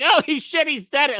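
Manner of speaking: high-pitched mock excitement; mimicking American fans. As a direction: imitate tickled fans, voice shooting up.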